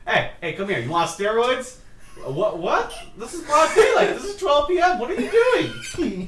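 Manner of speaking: high, laughing mock tough guy, slowing at the end; hammed-up Jersey Shore guy. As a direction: squeak it out like a caught gym bro. Acting steroid-dealer Jersey guy.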